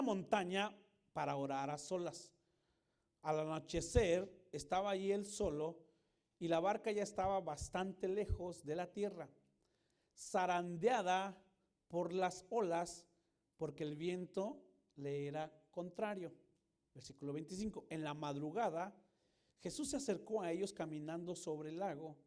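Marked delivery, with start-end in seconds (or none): none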